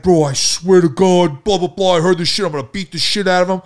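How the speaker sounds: retold angry bluster, pushed up high; imitated heated vow. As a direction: mimic a friend ranting that he means it. Retelling friend's angry vow.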